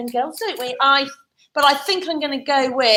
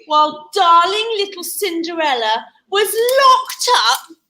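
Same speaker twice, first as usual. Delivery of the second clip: story narration; 3 semitones higher than usual. A narrator's reading. Storyteller sets up Cinderella in the cellar, dramatic narration. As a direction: tell it to children with big swings. Storyteller performing rhyme to children.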